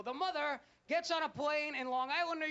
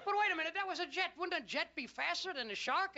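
higher, quick protest; mock bafflement; 4 semitones higher than usual. Viewer questions shark beating the jet, mock bafflement. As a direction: interrupt as the puzzled viewer. Viewer objects again to logic.

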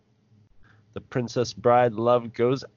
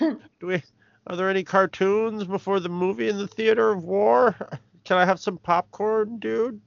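bad acting; 9 semitones higher than usual. Teasing the grand villain line.

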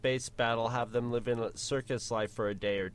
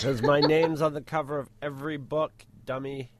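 cocky Harry retort; 6 dB louder than usual. Retold or imitated. Adds to the Harry gag.

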